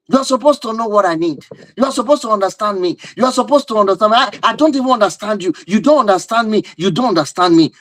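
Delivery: hammed-up spouse in a quarrel; mock quarrel. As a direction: throw the blame back at your partner. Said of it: "So it becomes a quarrel".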